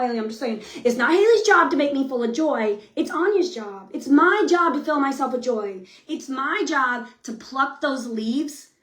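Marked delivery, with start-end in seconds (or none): none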